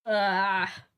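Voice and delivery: a real yawn; yawning open-mouthed. Real, not acted. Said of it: "I can't stop yawning".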